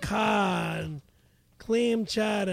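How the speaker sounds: attempted Boston accent. Shown as a demonstration. Coached to find the accent, Boston accent. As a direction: try key words in a Boston accent. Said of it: "we gotta get a Boston accent".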